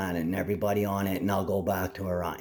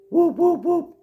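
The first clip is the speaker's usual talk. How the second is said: sudden high whoops; excited whoop; 6 dB louder, slower than usual. Real, not acted. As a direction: blurt out high and loud.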